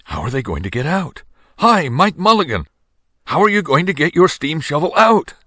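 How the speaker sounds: high, loud call down into the pit; crowd calling out. A narrator's reading. Townspeople calling down to Mike, high and loud. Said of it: "everybody said".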